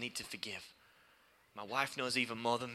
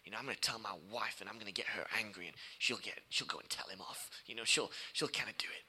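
whispered scheming thought; 4 semitones lower, 5 dB quieter than usual. Retold or imitated. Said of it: "I thought".

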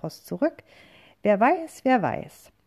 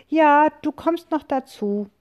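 high, loud witch call; 8 semitones higher, 6 dB louder than usual. A narrator's reading. Witch calling a friend aboard, high and loud. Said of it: "Die Hexe ruft".

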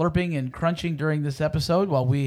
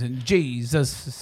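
preacher voice; much slower than usual. Pretend. Mock preacher stretching Jesus.

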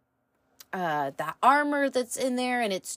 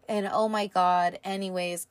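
out of breath. Real, not acted. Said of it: "I'm out of breath".

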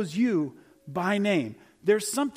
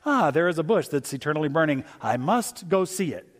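mock calm; 2 semitones lower than usual. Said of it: "is that how you would respond".

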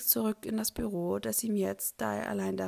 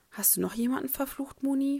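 teasing question, rising higher at the end; playful ribbing with a smile; grinning tease; 5 semitones higher, 3 dB louder than usual. Acted. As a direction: grin through the teasing question. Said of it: "fragt er grinsend".

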